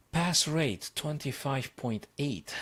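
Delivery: "Pass rate" called out high and loud; excited announcement. Real, not acted. Streamer reading the puzzle stats to viewers, excited callout. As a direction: announce it like a big reveal.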